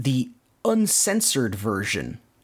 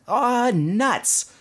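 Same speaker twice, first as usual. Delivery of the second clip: high, exasperated mock outburst; retold grumble, pitched up; mild retold yell; 11 semitones higher than usual. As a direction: swoop up high in cartoon frustration. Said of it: "Donald kinda yelling at the spring".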